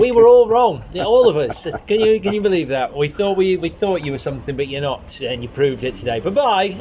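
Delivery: mock audience verdict. Comedian voicing the audience dismissing him, loud and sneering. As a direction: play the smug crowd turning on him.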